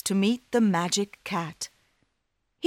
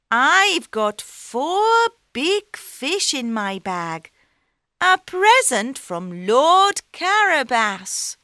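cat voice; 7 semitones higher, 6 dB louder than usual. Acted. Cat presents fish to king.

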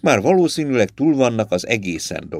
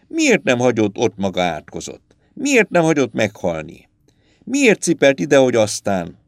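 angry outburst. Acted. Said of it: "Az írónő a doktorra támadt".

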